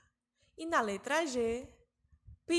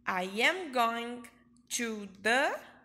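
I am going to the said slowly and louder, as one phrase; smooth it out but keep it slow; teacher modelling the phrase; slow model; 4 dB louder, slower than usual. Shown as a demonstration.

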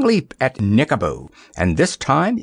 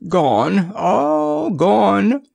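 higher, bright exclamation of relief; exclaiming; 11 semitones higher, much slower than usual. Acted. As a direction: call it out, much higher. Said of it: "exclaimed Nickaboo".

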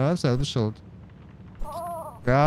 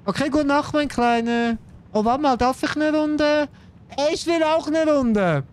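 cute pet voice; 11 semitones higher than usual. Pretend. Voicing the little pet at bedtime.

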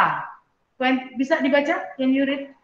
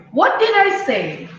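teacher voice; 3 semitones higher, slower than usual. Shown as a demonstration. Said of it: "Mister Sigit said".

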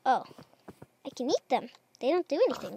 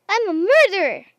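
higher, louder exclaim of guilt; mock horror; 5 semitones higher, 9 dB louder than usual. Real, not acted. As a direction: gasp at what you just did. Just killed the villager.

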